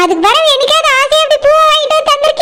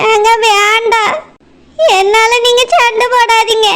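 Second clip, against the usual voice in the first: low, slow, teary plea to stop the fight; second wife begging husband through tears; tearful pleading; 4 semitones lower, slower than usual. Acted. Second wife pleads during quarrel.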